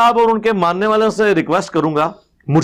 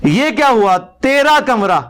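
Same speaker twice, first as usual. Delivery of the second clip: laughing taunt; 5 semitones higher, slower than usual. Real, not acted.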